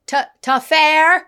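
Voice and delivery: halting, then loud drawn-out shout; high, slow counter-worker yell; yelled name call. Retold or imitated. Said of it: "she yells out".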